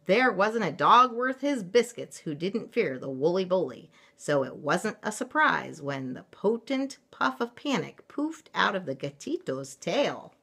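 lively picture-book reading, punched key words; story narration. A narrator's reading. Mother reading a picture book to children, animated narration.

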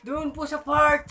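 put-on high, slow old lady reply; granny voice. Granny answering the officer, high and slow. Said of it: "sabi ni Lola".

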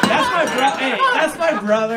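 loud, high wrestler growl of brother; hammed-up wrestling promo voice; Hulk Hogan impression. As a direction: shout it like a pumped-up wrestler. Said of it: "This guy says brother every other sentence".

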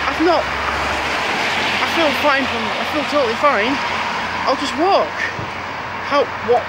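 playing his earlier cocky self; lightly voiced smug confidence; mock carefree. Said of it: "I thought".

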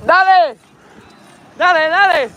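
Spanish cheer. Pretend. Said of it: "you like my Spanish?".

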